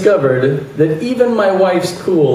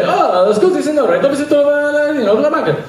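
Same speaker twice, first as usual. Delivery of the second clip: high-pitched, lilting tourist Italian; put-on Italian accent, eager to sound fluent; practiced Italian; 11 semitones higher than usual. Tourist walking up to a local for directions, practiced Italian. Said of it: "I wanted to sound perfect".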